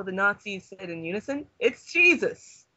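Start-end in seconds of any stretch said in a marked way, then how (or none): 1.6-2.6 slow, loud, high dramatic gasp of it's Jesus; dread. Acted. Nazis in unison realising who arrived, slow and loud. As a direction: drag it out like a horror reveal.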